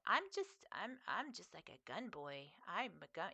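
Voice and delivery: lightly imitated little gun-boy voice; softly, a hint of boyish cuteness; Griffin. Streamer imitating the podcast's baby brother, lightly cute. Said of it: "he talks like this".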